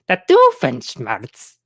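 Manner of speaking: "The Doofenshmirtz" drawn out slowly in a light mock Doofenshmirtz accent. Shown as a demonstration. Streamer asking chat if his Doofenshmirtz accent works, slow and mock. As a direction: stretch "The Doofenshmirtz" slowly in a half-hearted Doofenshmirtz accent. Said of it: "Let me know if I'm doing this, the accent".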